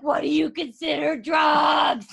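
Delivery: high, slow, wailed mock-cry; hammed-up drunk panic, stretched out; retold wail. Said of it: "She's like".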